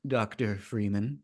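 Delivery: slow, odd G-Man inflections; eerie slow G-Man drawl. Retold or imitated. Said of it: "my Man in the Sun Mask voice is just directly lifted loosely from the G-Man from Half-Life".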